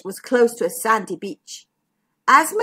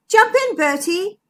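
cheerful zebra voice; 8 semitones higher, 4 dB louder than usual. Acted. Zigbee voiced in story.

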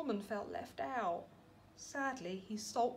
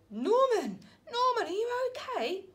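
higher, louder anxious calling; worried call; 11 semitones higher, 5 dB louder than usual. Acted. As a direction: rush to check on him. Snails worried for Norman.

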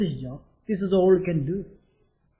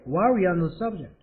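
slowed down, each word clear; slow careful repeat; much slower than usual. Shown as a demonstration. Teacher repeating the phrase slowly for students. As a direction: model it slowly for learners. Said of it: "아시겠죠?".

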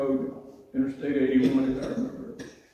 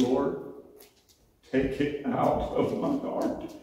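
hushed prayer; 3 dB quieter, slower than usual. Retold or imitated. Surrendering prayer.

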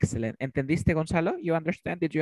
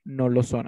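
"no lo son" said firmly with added weight; emphatic denial. Shown as a demonstration. Teacher repeats an emphatic denial as an example, stressed. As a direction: lean on each word of "no lo son". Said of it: "Imagínate que yo quiera enfatizar".

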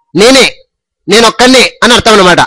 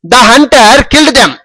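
slow dictation; much slower than usual. Shown as a demonstration. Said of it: "teacher reads model sentence".

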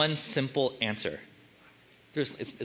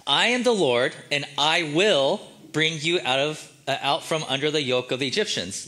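voice of God; 3 dB louder than usual. Shown as a demonstration. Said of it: "This is what he says".

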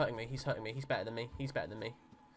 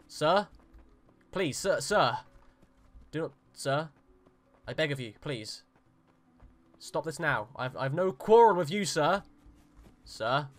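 1 mock pleading; 7 dB louder than usual. Pleading with armed guard.

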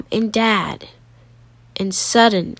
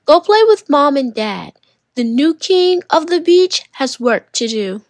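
bossy big brother; 4 semitones higher than usual. Acted. Gideon sending his sister away, bossy. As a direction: shoo her off like a little king.

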